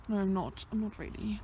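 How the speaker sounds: quiet whispered sarcasm; deadpan self-mocking denial; sarcastic. Real, not acted. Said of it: "Meant to be sarcastic".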